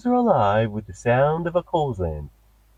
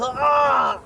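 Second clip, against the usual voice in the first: pained yelp; 11 semitones higher than usual. Acted. Stung by bees.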